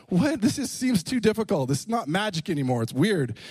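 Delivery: high, baffled What that sinks to a grumble; retold bewilderment. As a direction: sound thrown by the whole thing. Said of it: "And I'm like".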